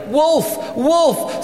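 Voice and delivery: high-pitched cry of alarm, held back in volume; mock yell. Boy planning a prank on the neighbours, mock yelling. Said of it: "I'm gonna start yelling".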